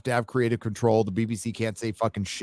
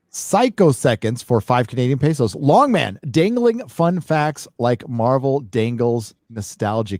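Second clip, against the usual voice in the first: loud reading; 5 dB louder than usual. Real, not acted. Reading super chat loudly.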